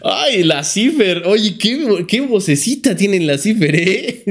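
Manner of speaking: high, slow catty mock voice; a hint of a catty contestant; mocking queen. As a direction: sneer at Cipher's little voice. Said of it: "las demás así como".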